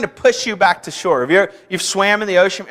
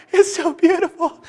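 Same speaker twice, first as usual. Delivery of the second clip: awed; 10 semitones higher than usual. Retold or imitated. Awed Kansas boy in ocean.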